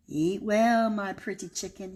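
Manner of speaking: lightly voiced wolf, coaxing; wolf calling sweetly. Wolf leaving pancakes on the porch, lightly coaxing. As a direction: coax the chicken, a hint of a wolf. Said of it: "he cried".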